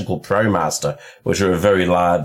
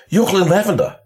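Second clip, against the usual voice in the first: higher, amazed recognition; first starstruck take, higher; 9 semitones higher than usual. Retold or imitated. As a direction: gasp out his name in disbelief. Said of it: "she's just freaking out".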